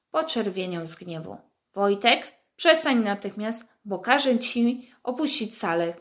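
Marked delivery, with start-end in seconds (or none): 1.7-2.3 Wojtek louder with a rising call; angry shout. Acted. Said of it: "krzyknął". 2.6-5.9 angry shout. Acted. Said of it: "krzyknął".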